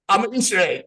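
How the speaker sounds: high, loud proud reveal; excited reveal. Retold or imitated. Showing Sherry his Easter egg costume, high excited voice. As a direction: unveil the costume with glee. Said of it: "I said".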